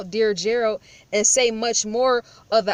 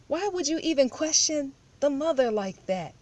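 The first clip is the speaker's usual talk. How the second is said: higher, scornful imitation of a critic; lightly mocking a troll's whiny question; 5 semitones higher than usual. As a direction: mimic a nagging viewer, a little higher. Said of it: "these other lames when they say".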